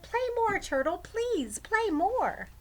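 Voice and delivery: put-on high, loud, begging child voice; bright childish plea; eager pleading girl. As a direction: beg like an excited little girl. Girl begging turtle to play.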